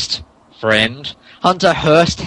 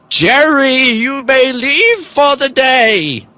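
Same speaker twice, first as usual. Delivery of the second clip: much higher, slow, haughty lady; mock Stephanie voice; 11 semitones higher, 3 dB louder, slower than usual. Friend voicing Stephanie to dismiss the butler, high and haughty. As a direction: play the cold lady of the house dismissing him. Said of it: "I'll do it".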